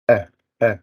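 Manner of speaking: short, separate "Uh, uh"; vowel demonstration. Shown as a demonstration. Student shows the class the vowel sound, demonstrating "Uh, uh". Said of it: "something like this".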